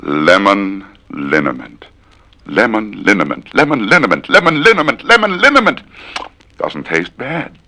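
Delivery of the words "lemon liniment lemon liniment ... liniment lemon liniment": a twister climbing the scale. Shown as a demonstration. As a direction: rise with each repeat. From low slow to high.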